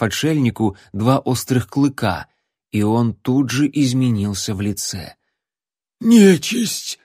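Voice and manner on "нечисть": a much higher, louder strained shriek; hoarse terrified cry. A narrator's reading. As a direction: shriek it with your voice catching. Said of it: "воскликнул севшим голосом мужичок".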